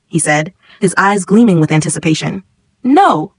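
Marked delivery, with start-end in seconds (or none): 2.8-3.3 scream. A narrator's reading. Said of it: "The whole class screamed".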